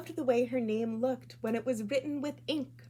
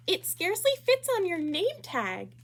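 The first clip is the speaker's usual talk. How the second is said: higher, louder mocking little girl; teasing girl voice; 8 semitones higher, 5 dB louder than usual. Classmate Rita pointing and teasing, high and loud. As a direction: needle her in a bright put-on kid voice.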